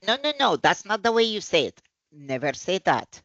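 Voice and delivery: scolding correction. Acted. Teacher addressing a learner's mistake, mock scolding. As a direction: act out a teacher jumping on a mistake. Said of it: "addressing the mistake".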